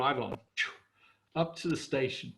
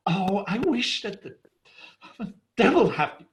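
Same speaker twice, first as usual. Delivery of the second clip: cursing the horses; 5 semitones higher than usual. Retold or imitated. Stranded husband cursing his runaway horses, building to a shout. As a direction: start fed up and end up yelling at the horses. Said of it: "he was going like".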